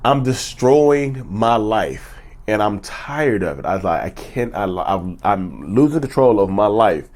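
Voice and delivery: slow, broken confession, a touch tearful; retold crying. Recalling his first session with the therapist: slow, mildly tearful. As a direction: haltingly retell breaking down, understated. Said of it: "I started crying".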